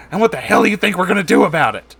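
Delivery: loud, high, indignant snap; angry retort. Acted. Lewis firing back at Deborah, loud and angry. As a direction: fire it back furiously. Heated reply in feud.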